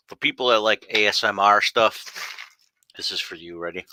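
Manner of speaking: munching a snack mid-sentence; chewing while talking. Real, not acted. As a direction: talk around a mouthful of kettle corn. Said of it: "if you hear me munching on something".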